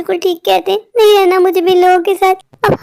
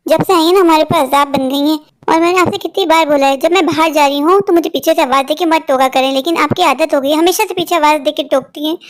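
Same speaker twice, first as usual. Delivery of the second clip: lower-pitched scolding voice; cold daughter-in-law; 3 semitones lower than usual. Acted. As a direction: scold the mother-in-law coldly. (बहू की ठंडी, नीची डाँट)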